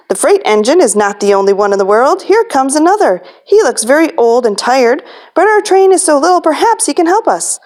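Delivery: a hint of hopeful clown. Clown pointing out another engine, mild hope. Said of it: "cried the little toy clown".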